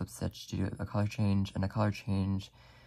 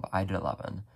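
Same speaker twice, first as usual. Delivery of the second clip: out of breath. Real, not acted. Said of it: "I'm, like, out of breath".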